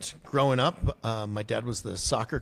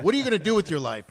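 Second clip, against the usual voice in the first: fast, higher and louder gruff demand; 9 semitones higher, 5 dB louder, much faster than usual. Retold or imitated. Sergeant major demanding the boy's life plans, barked. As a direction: fire it off like a drill sergeant.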